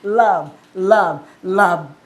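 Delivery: low, slow word of love; loving. Acted. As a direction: let each one fall low and tender. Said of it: "it is sounded love". (mapagmahal, mababa at mabagal)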